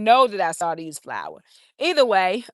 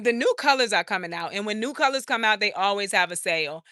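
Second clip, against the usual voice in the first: chewing gum. Real, not acted. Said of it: "I have gum in my mouth".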